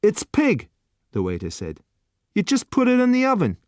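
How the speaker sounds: bored waiter pushing the last dish; gruff waiter. A narrator's reading. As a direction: waiter to customer, impatient put-on voice. Waiter blunt.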